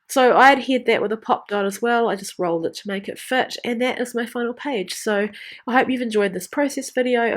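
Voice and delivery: blocked nose, nasal tone. Real, not acted. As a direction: talk through a stuffy nose. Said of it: "my nasally voice".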